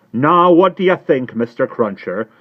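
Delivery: put-on high, loud, anxious old lady; agitated Miss Pross. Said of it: "whose agitation was so great".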